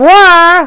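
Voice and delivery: "where" as "hwaa", breath of h at the start; where with slight h. Shown as a demonstration. Teacher repeats for students, "where" with a slight h. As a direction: say "where" with a little h before w. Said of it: "একটু এইসের উচ্চারণটা হয়".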